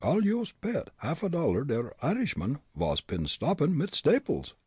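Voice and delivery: stage-German character voice; German accent. A narrator's reading. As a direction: muse in a thick German accent. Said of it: "Fritz muttered, with a grin".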